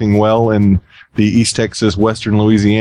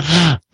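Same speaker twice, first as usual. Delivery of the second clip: maniacal laugh; 7 semitones higher than usual. Acted. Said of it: "the evil, maniacal laughing speaker".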